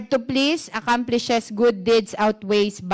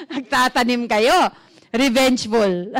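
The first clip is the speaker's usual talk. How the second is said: laughing. Real, not acted. Joking that they hold grudges.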